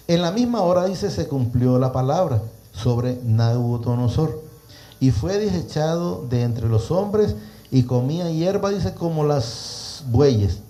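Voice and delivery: deliberate, projected verse reading; preacher proclaiming a Bible passage; scripture reading. Acted. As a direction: draw out the phrases for the congregation. Reads scripture aloud to listeners.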